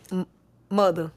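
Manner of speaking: mother in a lightly imitated New York accent. Shown as a demonstration. Memphis rapper asks host to say mother, New York accent. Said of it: "your accent not as heavy as them".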